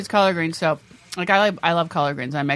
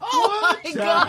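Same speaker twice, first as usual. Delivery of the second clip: surprised; 13 semitones higher, much slower than usual. Real, not acted. Reaction to escargot garden.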